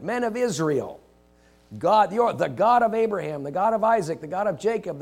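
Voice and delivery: ringing sermon voice; preaching Peter. Acted. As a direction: call it out to the crowd like Peter. Quoting Peter preaching to crowds.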